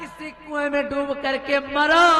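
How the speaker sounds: loud, slow, triumphant taunt; loud villain gloat. Acted. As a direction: savour every word of victory. Queen tells king to drown.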